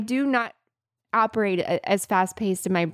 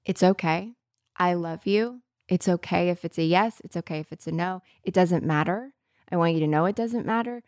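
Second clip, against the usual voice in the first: calmly and lovingly. Retold or imitated. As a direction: reassure her gently, take your time. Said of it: "very calmly and lovingly".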